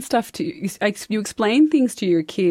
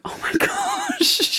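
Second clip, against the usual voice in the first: much higher, slow, laughing; laughing disbelief; 5 dB quieter, much slower than usual. Retold or imitated. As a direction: let the laugh swallow the words. Reacting to son's stories.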